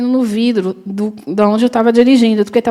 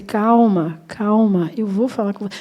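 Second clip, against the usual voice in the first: soothing calm; 4 dB quieter than usual. Retold or imitated. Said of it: "fui fazendo assim pra ele".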